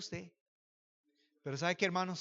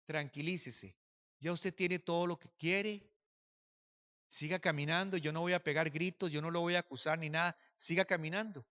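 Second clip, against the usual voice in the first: retold calming appeal; 4 dB quieter than usual. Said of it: "yo le dije a él".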